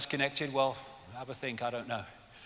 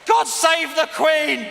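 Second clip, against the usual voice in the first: mock patriotic shout; 8 semitones higher, 6 dB louder, slower than usual. Chanting the anthem line.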